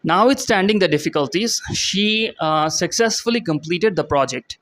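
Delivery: reading the definition aloud, very slowly. Shown as a demonstration. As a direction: spell the meaning out word by word for learners. Reads example slowly.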